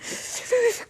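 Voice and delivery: quick breathy pretend sniffling; mock crying sniffles. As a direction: imitate a tearful, runny-nosed sniffle. Imitates the sloth's crying.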